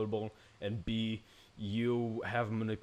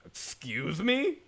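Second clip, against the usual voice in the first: slow, higher indignant question; offended, drawn out; 6 semitones higher, much slower than usual. Real, not acted. Player shushed by the detective, slow indignation. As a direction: stretch it out in disbelief.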